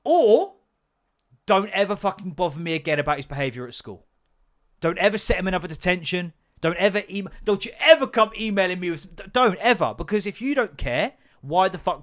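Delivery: angry rant. Acted. Ranting at the school.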